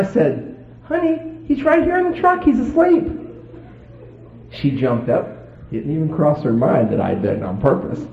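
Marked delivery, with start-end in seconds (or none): 0.8-3.1 reassuring. Retold or imitated. Husband answers his wife.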